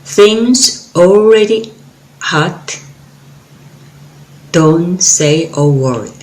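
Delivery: measured poem recital with long pauses; poem reading. Acted. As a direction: recite the poem line by line, pausing after each. Poet reads her poem.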